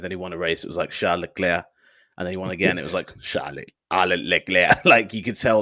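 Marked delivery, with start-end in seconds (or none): 0.9-1.6 "Charles Leclerc" with the final K dropped, ending on "-clair"; slightly shortened "Charles Leclerc", last consonant left off; dropped letters. Retold or imitated. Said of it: "you drop letters from his name". 3.2-4.8 "Charles Leclerc" slurred into "Sharle-leglair", consonants lost; mock commentator swallowing most letters of "Charles Leclerc"; commentator dropping letters. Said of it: "trying to drop as many letters as possible".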